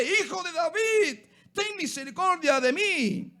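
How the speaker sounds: a blind beggar lifting his voice over the crowd to be heard; crying out harder. Retold or imitated. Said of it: "gritaba aún más fuerte".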